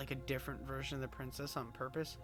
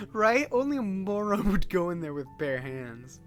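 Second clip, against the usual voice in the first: loud excited voice; 4 semitones higher, 7 dB louder than usual. Acted. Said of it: "Obviously, I'm gonna take the fucking blade".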